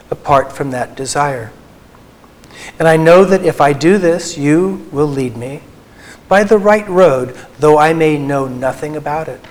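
earnest prayerful reading of a poem. Acted. Speaker reads Merton's prayer poem to the audience, earnest and prayerful. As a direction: read it as a heartfelt prayer.

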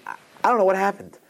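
high, quick imitation of a crying man; retold tearful bewilderment. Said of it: "I'm crying hysterically".

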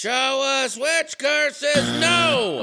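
slow, loud announcer call; game show shout. Acted. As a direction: boom it out to the board. Host booming the board.

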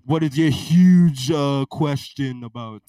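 lightly voiced blustering president; a hint of a rambling politician; president impression. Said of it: "So, Mister President".

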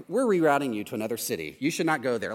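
lightly voiced robotic navigation, fast; a hint of a sat-nav announcer; GPS voice.

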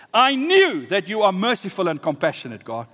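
mildly heated accusation; indignant complaint. Acted. Jonah accuses God of mercy, indignant. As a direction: turn praise into a grievance, leaning on KNEW. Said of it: "he complained to the Lord".

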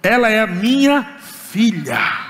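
forceful rebuke. Retold or imitated. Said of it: "agarrei ela e disse".

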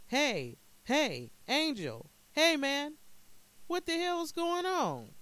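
loud, high-pitched calls with drawn-out names; alarmed shouting. A narrator's reading. Man lost in the desert calls out to Angel, alarmed shout. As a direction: yell out, baffled and alarmed.

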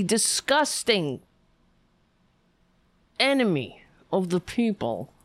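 slow, spat-out contempt at the screen; seething insults. Real, not acted. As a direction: drag out each insult like you mean it. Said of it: "I don't know why I'm talking like that".

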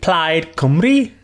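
slow Welsh lilt, rising at the end; Welsh accent. Shown as a demonstration. Guest repeating words for the host, in Welsh accent. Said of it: "can you do a Welsh accent?".

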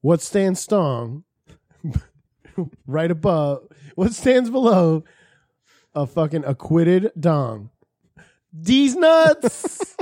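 slow, grand closing argument; honeyed southern lawyer drawl. Pretend. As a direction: draw it out like a showboating lawyer. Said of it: "He was like".

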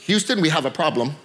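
steady and unhurried amid chaos; very calm. Retold or imitated. Astronaut radios control, very calm. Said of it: "he's very calm".

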